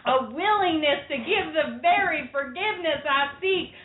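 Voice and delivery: lightly hammed Southern speech; earnest apology in a Southern accent; Southern Bill Clinton impression. Woman performing Clinton's apology for her co-host, Southern accent. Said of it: "You sounded like somebody from Steel Magnolias".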